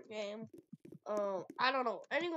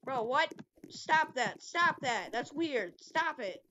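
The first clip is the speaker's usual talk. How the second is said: raised, insistent scolding; sharp protest; 3 semitones higher, 4 dB louder, slower than usual. Real, not acted. Player telling another off, raised insistent protest.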